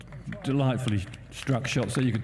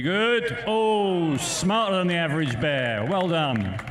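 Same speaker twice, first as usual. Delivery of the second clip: excited; 6 semitones higher, slower than usual. Real, not acted. Reacting to a great shot.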